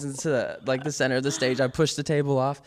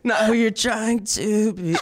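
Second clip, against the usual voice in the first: laughing; 11 semitones higher, 4 dB louder, slower than usual. Retold or imitated. Retelling cracked line, laughing.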